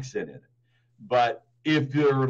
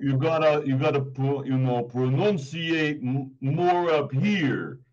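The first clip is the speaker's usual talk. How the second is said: nasal New York accent. Shown as a demonstration. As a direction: pronounce it up in the nose, New York style. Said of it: "You gotta talk like this".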